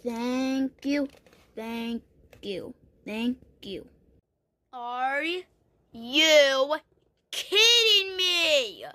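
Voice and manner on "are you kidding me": whiny disbelief. Pretend. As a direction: drag it out like a wounded protest. Second reaction, disbelief.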